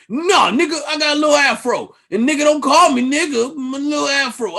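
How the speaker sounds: loud, high playful shouting; mock shout. Schroeder answering Kyrie, loud high mock shout. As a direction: yell it out, mock indignant. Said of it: "And he was like".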